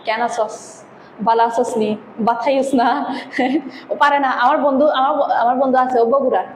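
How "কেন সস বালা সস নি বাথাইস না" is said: quick sample phrases in Chittagong dialect. Shown as a demonstration. Teacher shows students Chittagong phrases outsiders can't manage, in Chittagong dialect. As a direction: demonstrate everyday Chittagonian speech. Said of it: "চট্টগ্রামের গুলা পারবে না".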